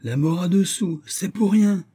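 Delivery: high sing-out sales pitch; market-seller patter, pitched high; street hawker. A narrator's reading. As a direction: cry your wares like a street peddler. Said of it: "sous le ton d'un camelot".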